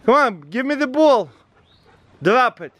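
high, coaxing pet voice; high-pitched dog command; calling the dog. Real, not acted.

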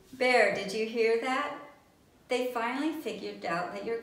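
loud excited telling; bursting with the good news; exclaimed. Acted. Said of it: "exclaimed Coco".

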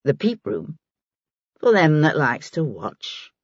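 unhurried working woman's dialect; a hint of an earthy, knowing old woman; lightly voiced Maggie. Narrator voices Maggie, old pipe-smoking woman.

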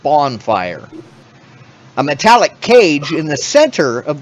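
slow scene-setting read; descriptive narration. Acted. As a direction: set the scene for players. Reads room description.

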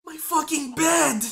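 high-pitched cry of dismay; dismayed outcry. Real, not acted. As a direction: wail over a sudden loss. Gamer loses the bed.

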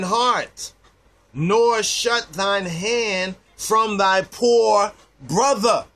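solemn, fervent scripture reading; preaching scripture. Acted. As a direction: build the verse with fervour. Reads scripture, rising intensity.

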